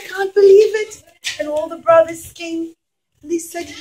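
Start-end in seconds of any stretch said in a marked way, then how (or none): 0.0-1.0 higher, louder gasp of disbelief; an old father stunned by joyful news; amazed disbelief. Acted. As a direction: burst out in amazement. Yaakov hears news.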